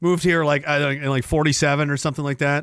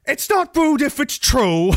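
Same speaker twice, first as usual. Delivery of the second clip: put-on high, slow Danish accent; hammed-up high Danish granny; Danish grandmother accent; 8 semitones higher, slower than usual. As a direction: imitate grandma's blunt retort in drawn-out Danish English. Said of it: "She says stuff like that".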